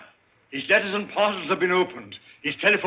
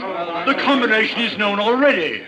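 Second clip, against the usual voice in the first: shouted out; 3 semitones higher than usual. Acted. Member shouts out in meeting.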